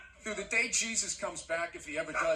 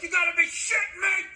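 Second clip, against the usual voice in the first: loud mock yell at the TV; furious shout at the ref, hammed up; screaming at the ref; 8 semitones higher, 6 dB louder than usual. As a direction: bellow it at the referee. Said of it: "you're screaming at the ref".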